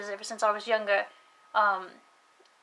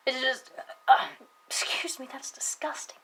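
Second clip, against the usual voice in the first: quick whispered aside; a hushed self-correction; whispered excuse me; 3 semitones higher than usual. Real, not acted. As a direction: whisper the apology under your breath. Whispers an apology mid-sentence.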